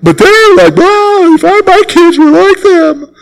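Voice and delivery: high, whiny voice of a jealous believer; preacher mocking a congregant envying another family; mock envious churchgoer. Mimics envious churchgoer again.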